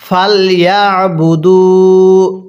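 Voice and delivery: very slow, drawn-out melodic recitation; slow chanted tajweed reading; Quran recitation. Shown as a demonstration. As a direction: recite each syllable long and sung. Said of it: "বলুন".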